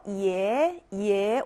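예 gliding upward from low; rising tone. Shown as a demonstration. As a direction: start each 예 low and lift it. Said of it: "올라가는 음이에요".

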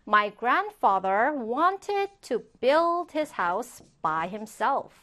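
slow, measured English example; slow model reading. Shown as a demonstration. Teacher reads a grandfather example to learners, slow model reading. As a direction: spell out the sentence slowly, phrase by phrase.

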